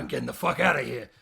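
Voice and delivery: loud, fast getaway line; mock hurried yell. Penguin fleeing in his Ducky Mobile, loud hurried yell. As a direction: blurt it out loud and quick.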